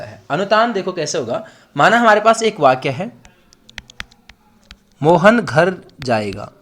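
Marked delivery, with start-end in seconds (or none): 5.0-6.5 "मोहन घर जाएगा" word by word, slow and falling to a full stop; plain statement tune. Shown as a demonstration. Teacher introducing the example sentence, slow measured statement of "Mohan घर जाएगा". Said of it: "यानी पूर्ण विराम में बोला".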